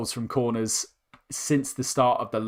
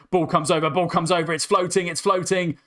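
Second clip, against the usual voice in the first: rising excitement; 4 semitones higher than usual. Real, not acted. Cross floating into the box.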